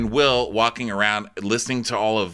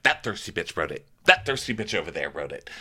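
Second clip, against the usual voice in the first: lower, pointed mock accusation; catty accusation; 4 semitones lower, 4 dB quieter than usual. The speaker accuses someone at the table, catty. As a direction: drop the voice to point the finger.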